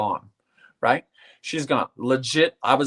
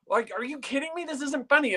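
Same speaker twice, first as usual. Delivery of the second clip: high, strained retelling of disbelief, a bit softer; stunned disbelief; 10 semitones higher, 5 dB quieter than usual. Retold or imitated. Telling friends about the night she died, in high stunned disbelief. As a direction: replay the moment you couldn't believe it.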